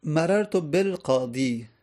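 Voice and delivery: slow, carefully spaced Arabic phrase مررت بالقاضی; slow example reading. Shown as a demonstration. Teacher reading the example sentence to students, slowly.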